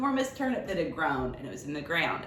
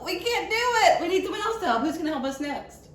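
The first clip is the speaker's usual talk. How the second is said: dramatic dismay; 9 semitones higher than usual. Acted. Librarian hamming the failed pull for the child, high mock despair. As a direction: play the failure big for the child.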